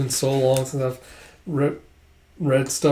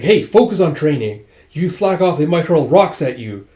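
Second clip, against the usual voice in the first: louder, lively telling-off; acted scolding; 3 semitones higher, 5 dB louder than usual. Officer scolds gawking recruits to focus on training, louder acted scolding. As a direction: push the warning at slackers.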